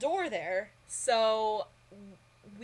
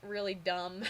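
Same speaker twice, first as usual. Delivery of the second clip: laughing; 2 semitones lower than usual. Real, not acted. Laughing at herself.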